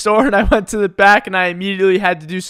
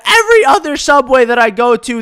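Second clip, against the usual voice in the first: lost it; 5 semitones higher, 4 dB louder than usual. Retold or imitated. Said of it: "this lady lost it".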